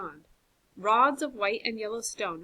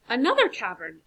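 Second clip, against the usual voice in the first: louder call echoing ahead; booming call; 2 semitones higher, 6 dB louder than usual. Acted. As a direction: call back through the cave. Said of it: "Alan's voice boomed".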